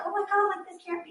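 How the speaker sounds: stunned disbelief. Retold or imitated. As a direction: start high in shock, then fade away. Retells family's disbelief at the news.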